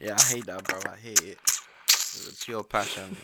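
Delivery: loud annoyed. Real, not acted. Hates eating noise.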